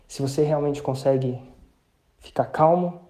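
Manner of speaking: normal talking voice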